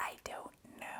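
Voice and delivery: very quiet whisper under the breath. Unsure what comes after the prep work, the speaker whispers.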